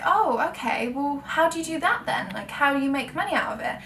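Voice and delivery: mock polite bewilderment, lightly acted; mildly confused. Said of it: "with a bit of a confused face".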